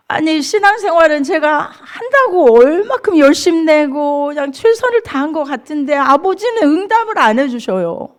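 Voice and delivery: resentful complaint. Retold or imitated. Believer complaining that Father does not answer, resentful. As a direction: protest like someone let down by God. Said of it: "원망도 했어요".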